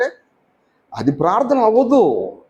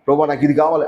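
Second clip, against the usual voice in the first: a flat, blunt demand to God; lightly voiced demanding prayer; demanding request; 3 semitones lower than usual. Shown as a demonstration. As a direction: say it like a child placing an order. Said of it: "అని చెప్పడం కాదు".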